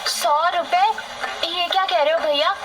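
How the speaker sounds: shocked outrage. Acted. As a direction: cry out at the cost in disbelief. Kamla shocked at the price. (कीमत सुनकर चौंकी हुई, ऊँची आवाज़ में विरोध)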